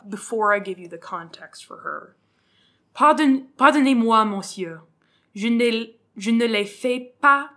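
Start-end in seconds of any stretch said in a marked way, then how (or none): 2.9-7.5 fumbled French. Shown as a demonstration. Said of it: "Damn it, I can't speak French".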